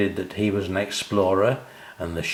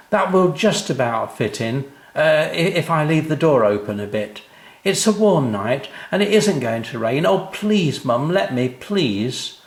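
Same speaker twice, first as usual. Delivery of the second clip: put-on pleading child; 6 semitones higher than usual. A narrator's reading. Sam pleads with mum.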